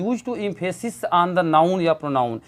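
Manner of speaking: very slow read-out; slow textbook reading. Shown as a demonstration. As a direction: read the definition word by word. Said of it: "ये बता रहा कि".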